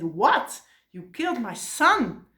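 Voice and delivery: storyteller's mock-furious exclamation; angry outburst. Furious mother confronting her son's killer, acted anger. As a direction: act out outraged disbelief, fairly restrained. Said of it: "she got so angry".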